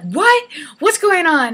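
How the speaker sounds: high, loud startled question; retold friend's alarmed double take; shocked disbelief. Friend hearing news of the charges, high shocked questions.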